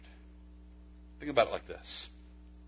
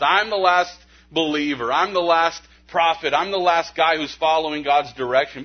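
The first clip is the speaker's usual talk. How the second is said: a hint of a puffed-up prophet, louder; mock self-important; 3 semitones higher, 6 dB louder than usual. Pastor mocking Elijah's narcissism, mildly puffed-up boast. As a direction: lightly ham up the boastful last believer.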